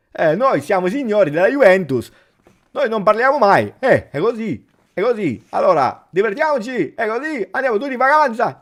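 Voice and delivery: high, loud, hammed-up caricature of a smug coach; exaggerated mocking Allegri voice, going fast on the holiday line; Max Allegri impression. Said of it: "This is Max Allegri".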